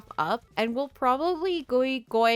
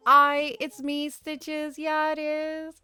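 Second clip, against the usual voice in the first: voicing Stitches; 5 semitones higher, 3 dB louder, slower than usual. Voices villager Stitches greeting.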